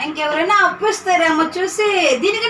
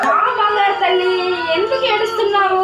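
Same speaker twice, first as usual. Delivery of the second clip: higher-pitched, sing-song coaxing; soothing; 4 semitones higher than usual. Acted. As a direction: comfort a crying little one. Coaxing a crying child.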